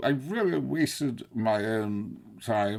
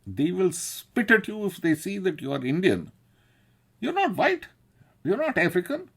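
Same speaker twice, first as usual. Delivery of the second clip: higher and louder, half-shouted fatherly warning; alarmed dad, pitched up and loud; retold father's warning; 8 semitones higher, 3 dB louder than usual. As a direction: warn the boy like an alarmed father, raised voice. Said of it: "my daddy was saying".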